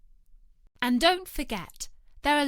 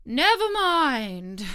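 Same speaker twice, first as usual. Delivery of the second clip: relieved; 6 semitones higher, 5 dB louder, much slower than usual. A narrator's reading. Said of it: "with an air of great relief".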